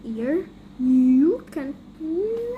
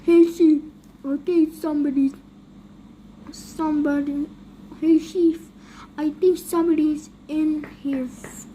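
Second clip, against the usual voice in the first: calling out; faster than usual. Acted. Calling out to Chief.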